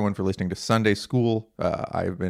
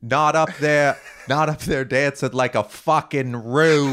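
mock New Zealand accent; 4 semitones higher than usual. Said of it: "Are you doing a New Zealand accent?".

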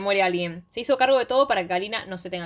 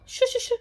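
high, quick "shu shu shu"; hushed-up sound effect of hurrying someone off; imitated shooing noise. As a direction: whoosh someone away with little shushes. Imitates being whisked away.

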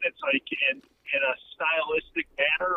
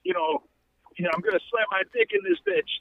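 mild Chris Rock bit; 11 semitones higher than usual. Retold or imitated. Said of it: "He was like".

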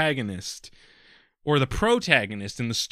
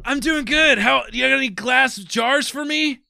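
loud, much higher shouting voice; high-pitched character voice; 13 semitones higher, 7 dB louder than usual. Pretend. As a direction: yell it up high like an excited kid.

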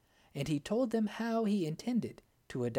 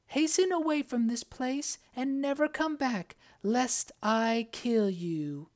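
menacing witch; 9 semitones higher, 4 dB louder than usual. Acted. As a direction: drag out the threat like a witch. Enchantress threatens prince.

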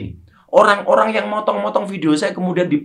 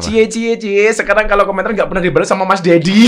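higher, sing-out netizen jeer; mock teasing; 4 semitones higher than usual. Netizen ribbing him for commenting unanswered, mock teasing. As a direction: tease in imitation of a commenter.

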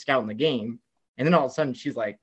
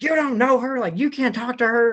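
higher and a bit louder, a mock security guard telling him off; mock guard yelling; 9 semitones higher, 3 dB louder than usual. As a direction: bark like a bored guard blocking the way. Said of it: "starts yelling at me".

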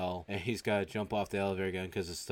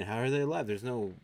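incredulous questioning; 6 semitones higher than usual. Retold or imitated. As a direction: act out baffled disbelief, rising higher. Acted disbelief at living brains.

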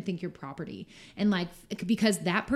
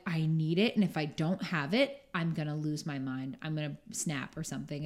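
needy dependence; 3 semitones lower than usual. Acted. Speaker voicing someone dependent on a habit, needy. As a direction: play someone hooked, sinking in tone. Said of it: "in a way of, like".

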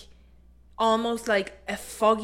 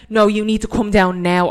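urgent insistence; 7 dB louder than usual. Retold or imitated. Frightened girl insisting.

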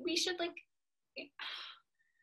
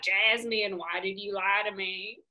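put-on Southern accent. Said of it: "regressing back to your Southern accent".

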